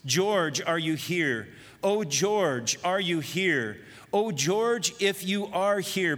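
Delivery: a lightly voiced old man, quivering and pleading; cracking, quivering voice. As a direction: let the voice crack and quiver as he calls his lost son. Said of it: "with a cracking, quivering voice".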